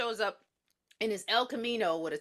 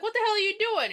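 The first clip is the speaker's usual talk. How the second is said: much higher, louder outraged yell; retold yell; 11 semitones higher, 4 dB louder than usual. Steve yelling at the cop arresting Rachel. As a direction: shout at the cop. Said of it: "Steve is like".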